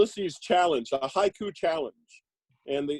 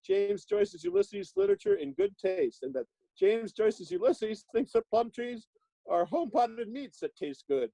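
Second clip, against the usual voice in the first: high, bouncy vintage announcer read; chipper 1950s ad; 3 semitones higher than usual. Acted. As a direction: pitch it like an old radio commercial. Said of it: "I'll just read from the back of this one".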